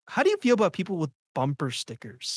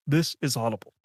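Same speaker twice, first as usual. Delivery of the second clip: Audible announcer; 2 semitones lower than usual. Retold or imitated. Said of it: "you sound like the guy from Audible".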